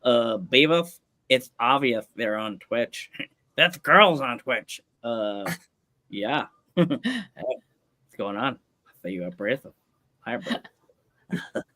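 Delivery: slow, dopey cartoon teen voice; Butthead impression. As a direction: drawl it like a dim cartoon slacker. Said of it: "It's a pretty good impression".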